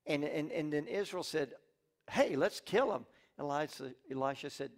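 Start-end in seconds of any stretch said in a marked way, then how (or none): 2.1-3.1 eager soldiers. Acted. Israel eager to kill.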